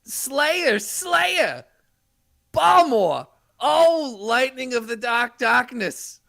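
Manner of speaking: dramatic incantation. Acted. Sorcerer casts lightning spell.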